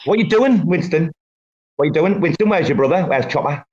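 calling to the dog like the boss of him; bossy dog talk. Real, not acted. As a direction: talk down to your dog, firm and in charge. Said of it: "I like how you talk about it. You talk to him like you think you're the boss".

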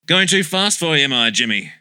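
teasing sidekick, pitch up; mocking. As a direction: needle him playfully. Mocking his dazed sidekick.

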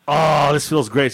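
long, slow, savoring sigh of words; blissful relief. Retold or imitated. Feverish husband inside the freezer, acting blissful relief. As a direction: relish the cool, acted out.

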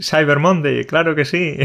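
mock Spanish accent. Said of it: "nuestro inglés".

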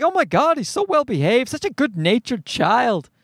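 lightly imitated admiring parent, opening high; mild mock gushing; gushing onlookers. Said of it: "And everyone was like".

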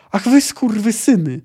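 sudden high, loud bellow of curses; a mayor suddenly bellowing; bull-voiced roar. A narrator's reading. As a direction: explode at them like a bull. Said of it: "ryknął nagle ... byczym głosem".

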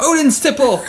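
high, laughing mock-heroic echo; laughing viking toast.

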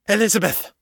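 high-pitched urgent shout, not at full volume; shouted call. A narrator's reading. Morgan calling to Elizabeth as the trap triggers, shouted. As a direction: call out her name, voice leaping high. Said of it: "Morgan shouted".

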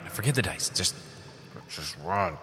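urgent hushed voice; whispering. Real, not acted. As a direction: keep it low and insistent. Hiding plans from the dragon.

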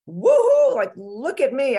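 a loud, high whoop of self-congratulation; gleeful cheer. Retold or imitated. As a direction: cheer yourself on, delighted with your progress. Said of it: "I was so happy with my progress".

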